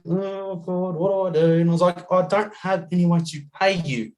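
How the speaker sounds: mildly panicked, confessing to the driver; retold panic. Retold panic over having no money.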